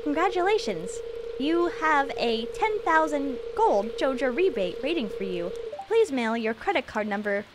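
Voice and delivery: flat robocall voice; robot voice. Pretend. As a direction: read it like an automated scam call. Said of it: "You hear a robotic voice".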